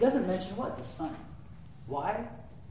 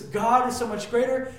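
"greater" lifted, louder and higher; awed exclamation; 5 semitones higher, 7 dB louder than usual. Retold or imitated. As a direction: proclaim "God is so much greater" with awe. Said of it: "He looks up and he says".

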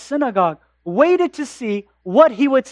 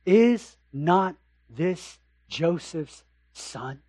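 skeptical townsfolk; 5 semitones lower, 7 dB quieter, much slower than usual. Acted. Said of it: "another reaction sets in".

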